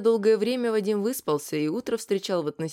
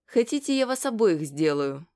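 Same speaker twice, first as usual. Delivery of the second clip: sly teasing. Acted. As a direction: tease them with a smile. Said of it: "ехидно улыбаясь".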